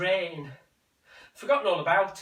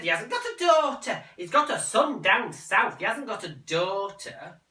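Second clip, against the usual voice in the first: high, firm denial; insist, pitched up; mother's voice; 5 semitones higher, 3 dB louder than usual. Acted. Mother denying to son, high and insistent.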